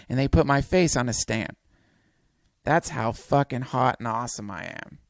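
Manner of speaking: animated, driving narration of a tall tale; dramatic story reading. A narrator's reading. Comedian reading a tall tale to listeners, animated story narration. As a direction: read it out like an epic fantasy.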